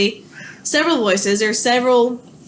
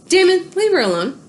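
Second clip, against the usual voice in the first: calling out; 7 semitones higher than usual. Real, not acted. Scolding the dog mid-lecture.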